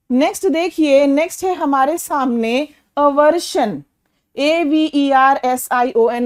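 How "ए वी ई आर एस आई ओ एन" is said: slow, careful letter-by-letter dictation; slow spelling. Shown as a demonstration. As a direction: spell each letter slowly and evenly. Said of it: "teacher spells the word".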